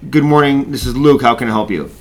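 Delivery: friendly receptionist greeting; polite phone greeting. Shown as a demonstration. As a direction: answer the phone politely, with the name. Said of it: "or say".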